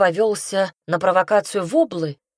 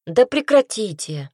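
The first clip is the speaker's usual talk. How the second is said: louder, higher burst of pent-up irritation; an exasperated young lady's outburst; indignant outburst; 4 semitones higher, 5 dB louder than usual. A narrator's reading. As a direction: finally snap back, louder. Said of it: "возмутилась я, давая выход накопившемуся раздражению".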